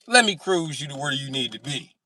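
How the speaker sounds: hammed-up smooth talk; smooth host. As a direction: play the cool guide. Showing off to British friend.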